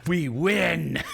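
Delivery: menacing villain taunt; cult villain voice. Acted. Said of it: "he is like".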